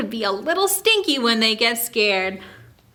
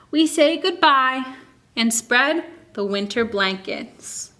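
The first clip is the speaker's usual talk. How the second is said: put-on reading to children. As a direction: read it aloud to a class of little kids. Reads picture book to kids.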